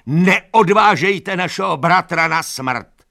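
slow, high, loud pleading; desperate plea. Acted. Animals begging the horses to stop, desperate high plea. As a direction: beg them to spare him.

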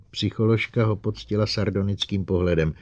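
ordinary delivery

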